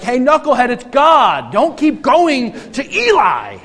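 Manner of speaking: high, loud, exasperated scolding; mock-angry divine telling-off; mock mad God. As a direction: scold a knucklehead in hammed-up annoyance. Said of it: "we don't see God get mad".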